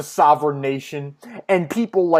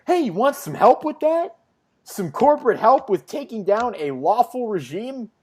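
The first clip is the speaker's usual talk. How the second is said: chirpy eager offer; 6 semitones higher than usual. Retold or imitated. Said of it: "what is Peter's reaction to this?".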